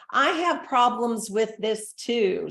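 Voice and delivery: slow, gentle sharing; reassuring. Shown as a demonstration. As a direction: say it like it's your problem too. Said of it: "if they struggle, absolutely step in".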